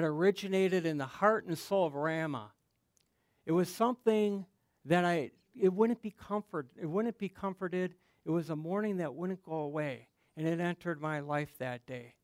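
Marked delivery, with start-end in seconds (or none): 4.8-12.1 choked up, holding back tears. Real, not acted. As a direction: voice catching with real emotion. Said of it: "I get a little choked up".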